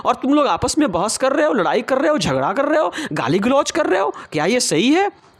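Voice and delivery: put-on high, reproachful old woman's voice; reproachful grandmother. Grandmother scolding the crowd.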